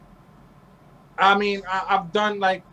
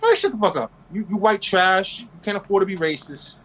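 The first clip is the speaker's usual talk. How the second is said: telling off rednecks. Retold or imitated. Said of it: "They be like".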